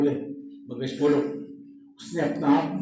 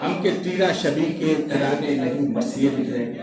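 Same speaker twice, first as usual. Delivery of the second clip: measured mushaira declamation; poetry recitation; 4 semitones higher than usual. Acted. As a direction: recite the couplet with deliberate lifted phrases. Poet recites his ghazal.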